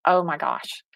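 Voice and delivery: hushed, understated retold emotion; holding back tears. Guest retelling the boy's hug, mildly tearful and hushed. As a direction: say it softly, as if moved near tears. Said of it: "fighting back the tears".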